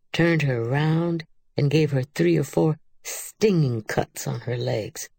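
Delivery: usual speaking voice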